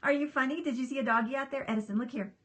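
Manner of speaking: talking to pet. Real, not acted. Owner asking the dog about a puppy outside, soft cooing.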